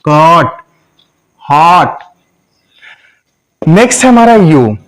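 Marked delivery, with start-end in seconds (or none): 0.0-2.0 कट, हॉट with an open "aw"; short O. Shown as a demonstration. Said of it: "short sound में हो जाएगा". (खुला, छोटा ऑ)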